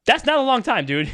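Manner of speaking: high-pitched burst of disbelief; incredulous. Real, not acted. Podcast host reacting to a pitcher's two-week timeline, incredulous. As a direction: blurt it out, pitch leaping up.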